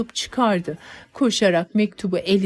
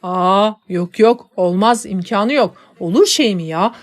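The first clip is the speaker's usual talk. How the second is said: firm refusal; 5 dB louder than usual. Acted. Father refuses firmly.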